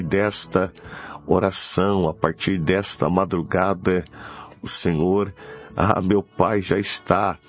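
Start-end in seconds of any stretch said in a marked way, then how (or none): none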